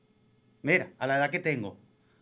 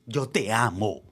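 hammed-up declaration, pitched lower; overacted forceful devotion; 4 semitones lower, slower than usual. Man shows his partner he means it, overacting with force. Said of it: "Lo estoy diciendo con fuerza".

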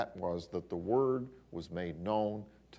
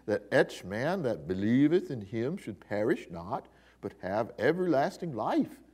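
Cockney accent; 3 dB louder than usual. Shown as a demonstration. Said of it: "I guess, a Cockney accent".

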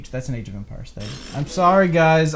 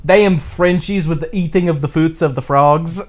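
slow, louder lightly Swedish exclamation; friend's Swedish outburst, mildly imitated; Swedish accent exclaiming; 3 semitones higher, 6 dB louder than usual. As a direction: exclaim it in a mild Swedish lilt. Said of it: "he just randomly just exclaims".

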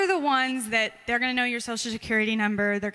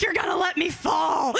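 put-on scared child; 5 semitones higher than usual. Scared child answers her dad.

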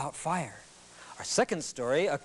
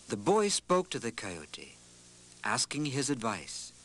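epic fantasy narrator; 3 semitones lower than usual. A narrator's reading. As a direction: tell it like an old legend. Storyteller narrates a legend.

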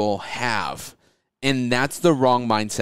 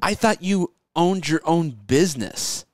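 higher, whiny guilt-trip voice; guilt-trip him like a relative; nagging family; 4 semitones higher than usual. Retold or imitated. Family scolding Keith about Sunday dinner, whiny. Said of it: "your family's like mad".

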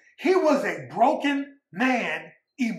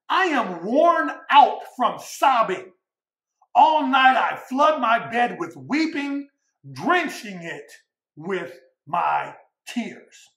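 solemn scripture reading; slower than usual. Acted. Preacher reading the psalm of weeping, slow and fading. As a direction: read the lament slowly, letting it sink.

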